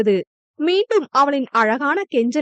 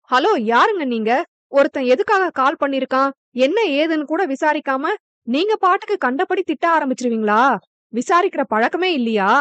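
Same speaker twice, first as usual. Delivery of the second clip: mild rapid scolding; faster than usual. Acted. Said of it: "என அவன் படபடவென பொரிந்து தள்ள".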